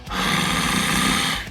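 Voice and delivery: raspy breathy sigh; false chord exhale. Shown as a demonstration. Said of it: "comes from the false chords".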